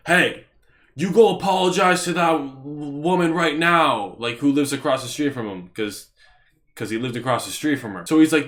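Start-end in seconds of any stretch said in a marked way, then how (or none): 0.1-4.1 put-on old guy yelling. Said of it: "He yells at me".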